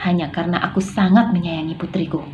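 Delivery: mild menace, firm and measured; threatening. Shown as a demonstration. Novel villain warning a young man at his parents' grave, threatening. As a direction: read it as a stern threat with punched words. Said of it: "contoh intonasi mengancam".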